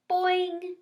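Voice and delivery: high, loud twanging boing; spring the sound like a frog. A narrator's reading. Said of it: "he replied".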